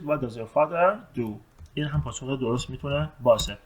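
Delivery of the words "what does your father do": slow, careful English question; slow model question. Shown as a demonstration. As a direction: spell the question out slowly for learners. (پرسش انگلیسی آهسته و شمرده)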